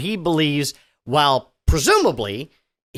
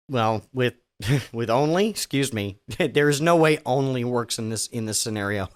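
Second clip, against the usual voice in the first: laughing; 6 semitones lower, 3 dB quieter than usual. Real, not acted. Cracking up mid-read.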